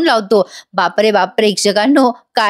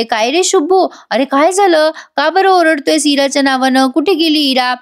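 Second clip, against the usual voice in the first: high, anxious questions of a worried aunt; 5 semitones higher than usual. Retold or imitated. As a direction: ask in alarm, voice raised high. Aunt runs in, alarmed. (धावत आलेल्या आत्याचा काळजीचा, उंच आवाज)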